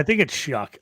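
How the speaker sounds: "Shuck" said with the vowel of "luck"; Shuck pronunciation. Shown as a demonstration. Pushing back on a co-host's pronunciation, says "Shuck" like "duck". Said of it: "I always say Sh".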